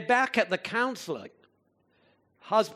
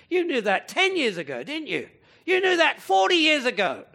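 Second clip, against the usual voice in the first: rising higher and louder to a loud shout; building to a shout; 7 semitones higher, 7 dB louder than usual. Real, not acted. Preacher to congregation, building from firm to shouting. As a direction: hammer it home, louder each time.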